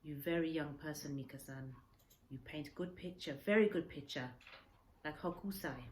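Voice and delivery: lightly voiced broken English; old man advising kindly. Old man tells the boy his life lies ahead, kindly. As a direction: send the boy home with kindness.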